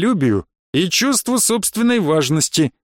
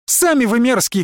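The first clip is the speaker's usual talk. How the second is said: shouted retort; 8 semitones higher than usual. A narrator's reading. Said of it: "крикнул я".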